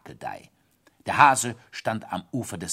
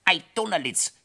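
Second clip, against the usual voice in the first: grinning exclamation; 9 semitones higher, 4 dB louder than usual. Acted. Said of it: "grinste Thaddäus".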